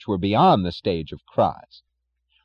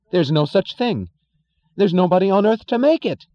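terrified shouting; 11 semitones higher, 6 dB louder than usual. Acted. Stadler crying out in terror.

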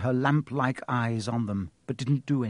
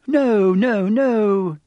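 high, loud flustered no; frantic denial; 9 semitones higher, 8 dB louder, much slower than usual. Acted. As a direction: deny it in a panic.

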